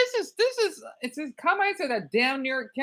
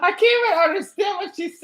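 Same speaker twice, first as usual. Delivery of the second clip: exasperated outburst; 8 semitones higher, 6 dB louder, faster than usual. Real, not acted. Reactor baffled by clip.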